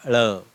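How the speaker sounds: ळ as a retroflex l, tongue curled back; demonstrating ळ. Shown as a demonstration. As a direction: say ळ clearly, neither plain ल nor ड. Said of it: "इसको पढ़ना कैसे है".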